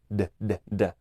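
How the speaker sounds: "d" with a puff of air; released d. Shown as a demonstration. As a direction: repeat a released "d". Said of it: "se pronuncia como".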